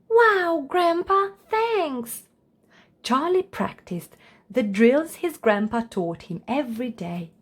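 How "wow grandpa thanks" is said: put-on much higher, thrilled kid; overjoyed at grandpa's offer; high excited thanks; delighted child.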